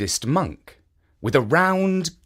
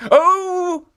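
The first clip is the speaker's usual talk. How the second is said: a slightly raised, mildly surprised statue voice; lightly voiced statue; 6 dB louder than usual. A narrator's reading. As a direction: play innocent with a touch of surprise. Statue feigns innocence.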